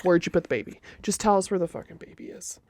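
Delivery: mock demand for the baby; interrogating stranger. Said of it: "and they are like".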